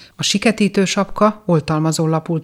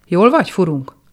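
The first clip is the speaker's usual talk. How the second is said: louder, anxious asking; worried question; 3 semitones higher, 5 dB louder than usual. Acted. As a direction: check on a dazed friend with concern. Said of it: "kérdezgették a többiek aggodalmasan".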